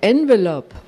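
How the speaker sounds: retelling the guru calling after her, mild call; calling out loud. Retold or imitated. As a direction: call the one word across the hall, only lightly lifted. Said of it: "rief ganz laut".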